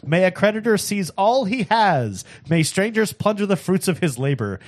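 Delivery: rising impassioned oratory; preacher voice. Acted. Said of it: "that is your preacher voice".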